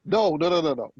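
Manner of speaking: usual speaking voice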